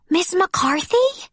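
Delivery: put-on breathy childlike whisper, slow and high; a shy little girl's whispered question. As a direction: whisper it shyly like a little girl. Shy child greets teacher.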